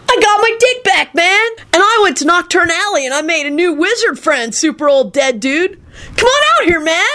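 very high, excited dude voice; elated. A narrator's reading. Kenny sharing news with the dead man, elated.

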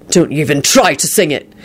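menacing warning; ominous thunder. A narrator's reading. Host forbidding drunken singer, ominously. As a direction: warn him off angrily. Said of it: "Quentin thundered ominously".

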